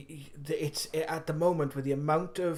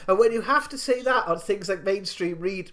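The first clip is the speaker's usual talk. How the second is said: words spilling through laughter, higher; laughing while talking; 5 semitones higher, 3 dB louder than usual. Real, not acted. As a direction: talk through the tail of a laugh. Still laughing after the quote.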